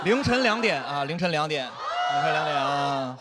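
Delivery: hype shout. Acted. Hyping late-night crowd.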